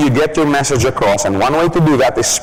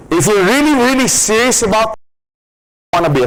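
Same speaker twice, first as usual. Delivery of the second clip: ordinary talk, nothing marked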